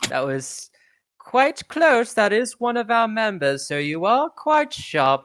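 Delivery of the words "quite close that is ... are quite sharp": high excited voice. Acted. Robot impressed.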